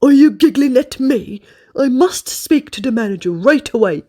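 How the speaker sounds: indignant grumpy customer; cross. Acted. Mister Grumble complains to the waitress.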